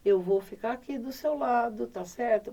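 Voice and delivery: put-on calm, even bedtime talk to a child; gentle but firm parent at bedtime; calm reassurance. Shown as a demonstration. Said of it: "Você tem que falar calmamente com ela".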